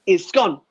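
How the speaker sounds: SCONE with a short o, landed as a punchline; "scone" with the short vowel of "on"; scone rhyming with gone. Shown as a demonstration. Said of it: "'cause it's gone".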